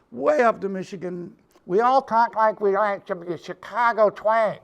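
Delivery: hammed-up Chicago twang. Shown as a demonstration. Guitar teacher joking about how Great Lakes people talk, Chicago twang. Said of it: "you're hearing my Chicago twang".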